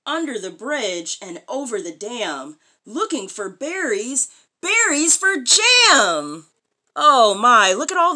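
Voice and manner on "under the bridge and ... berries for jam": sing-song rhyme, slowing at the end; reading to children. Acted. Mother reading a picture book rhyme aloud, sing-song. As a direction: read the rhyme to a small child.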